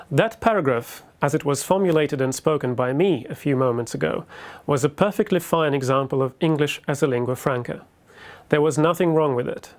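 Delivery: British-accented lecture English; fluent, taught British accent; fake British accent. Shown as a demonstration. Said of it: "I was taught to fake British accent".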